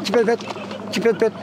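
brisk chirped call; mimicking a common goldfinch phrase; bird call imitation. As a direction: chirp it crisply like a finch. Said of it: "çipet pet diyorlar".

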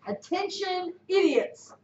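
mock announcement; quoting the movie line with a smirk; film quote. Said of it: "the guy pulls the spaceship up and he goes".

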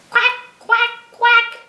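high, loud staccato quacks; mother duck quacking. Acted. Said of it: "Mother duck said".

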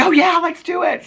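high-pitched imitated enthusiasm; put-on excited yes; retold eager agreement. Retold fan agreeing to photo.

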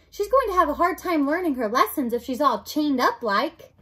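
a hint of an eager serving girl; Mig, simple serving girl. Mig objects to the princess in chains, lightly voiced serving girl.

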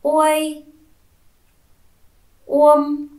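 Uôi and Uông read high and loud, each alone; clear whole-word reading. Shown as a demonstration. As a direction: read them smoothly for the children. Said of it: "Còn hãy đọc trơn". (đọc trơn to, rõ ràng)

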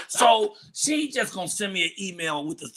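ordinary talk, nothing marked

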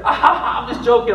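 imitating son laughing. Son telling dad it was a prank, laughing it off. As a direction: play the kid cracking up at his own prank.

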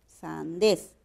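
"sandés" drawn out as SAN-DÉS; syllable by syllable. Shown as a demonstration. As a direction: split "sandés" into two separate syllables. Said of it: "de silabeo".

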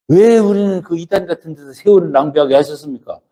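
mock resentful protest to God; resentful complaint. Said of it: "이렇게 나도 이제 원망할 때가 있었어요".

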